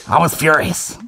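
stand-up comic catchphrase; Dave Chappelle impression. Comic capping the rant, imitated stand-up voice. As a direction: deliver it as a dry aside. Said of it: "with the Dave Chappelle voice".

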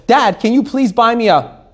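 lightly voiced kid asking dad; pleading kid. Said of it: "when you talk to your dad".

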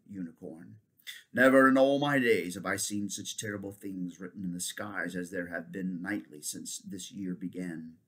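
lightly voiced solemn centaur; grave centaur. Centaur warning the king of the stars, grave. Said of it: "Roomwit looked very grave".

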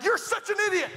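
pitched well up in pretend anger; lightly acted mad jab; mock insult. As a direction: fling it like a petty grudge. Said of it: "I'm mad at you and I'm like".

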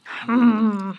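disapproving hmm. Real, not acted. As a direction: hum like it costs too much. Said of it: "That's my, "Oh my God, you are very expensive" sound".

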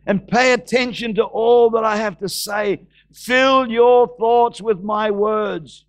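slow, drawn-out scripture proclamation; preach. Acted. Preacher proclaiming scripture to the congregation, slow and declamatory. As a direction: declaim it solemnly, phrase by phrase.

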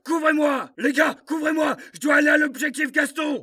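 shouted orders under fire; battle shout. Acted. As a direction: yell it over gunfire. Soldat crie des ordres au combat. (cri de combat)

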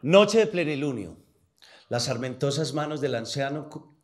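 solemn recited verse, measured phrasing; poetry declamation. Acted. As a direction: recite like a poet at a reading. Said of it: "no, le voy a declamar un pedacito de una poesía".

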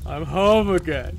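slow, glum drawn-out words; glum drunken lament. Acted. Drunk girl laments her town, slow glum delivery. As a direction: draw it out wearily.

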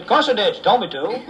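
can't keep a straight face telling it; laughing through it. Acted. Farmer laughing through punchline.

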